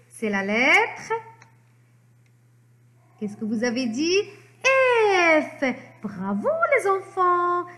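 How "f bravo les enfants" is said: high, celebratory confirmation; delighted praise. Pretend. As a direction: cheer as if the children just answered right. Teacher celebrates children's supposed answer. (félicitations ravies, voix aiguë)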